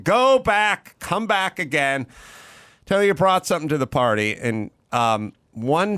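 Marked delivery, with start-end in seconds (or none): 0.0-4.3 The speaker. Retold or imitated. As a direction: send the student back with a blustery mock yell. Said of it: "was yelling".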